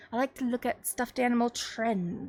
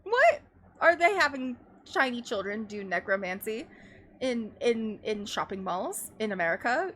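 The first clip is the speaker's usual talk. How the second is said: incredulous husband. Retold or imitated. Retelling the French husband confused at Build-A-Bear. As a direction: pitch the first word way up in alarm. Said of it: "And he's like".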